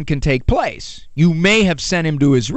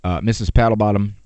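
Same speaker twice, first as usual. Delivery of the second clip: lower-voiced patient parish priest; a lightly voiced priest, calmly reminding her; 8 semitones lower than usual. Priest answering weary parishioner.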